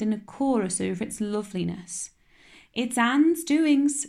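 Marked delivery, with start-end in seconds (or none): 2.7-4.1 grim. A narrator's reading. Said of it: "said Marilla grimly".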